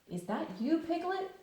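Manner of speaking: lightly voiced Pooh, rising; a gentle bear wondering in the dark. Pooh calling out into the dark room.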